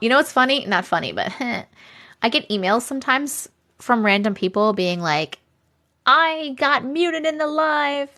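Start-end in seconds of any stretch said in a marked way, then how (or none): 6.1-8.1 drawn-out, higher whiny imitation; mock complaint. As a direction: imitate an aggrieved complainer, slowly. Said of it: "they get so mad sometimes".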